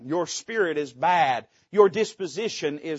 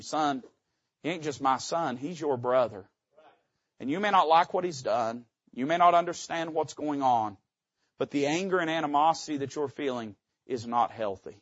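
gentle reminder. Retold or imitated. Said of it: "the father gently reminds him".

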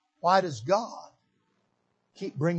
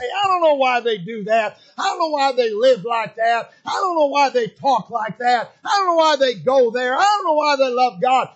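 condescending; 4 semitones higher, 8 dB louder than usual. Retold or imitated. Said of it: "we look down our noses at them and say".

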